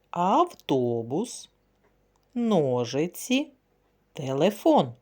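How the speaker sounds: Автобус stretched out very slowly; slow teaching read. Shown as a demonstration. Teacher reading a word to children, very slowly. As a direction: draw out Автобус syllable by syllable for the kids. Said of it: "Слухайте слова".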